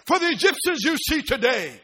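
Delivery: emphatic proclamation to a crowd; Moses addressing people. Acted. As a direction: proclaim it firmly, hitting key words. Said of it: "stands before the people and says".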